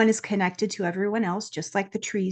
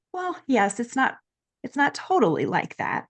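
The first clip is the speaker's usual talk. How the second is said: a hint of a higher, gentle angel; lightly voiced angel; 5 semitones higher than usual. Angels answer the four-year-old.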